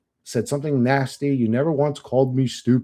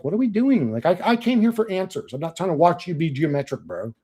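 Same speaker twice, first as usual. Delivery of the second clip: retold exasperation; 4 semitones higher than usual. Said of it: "But I was just like".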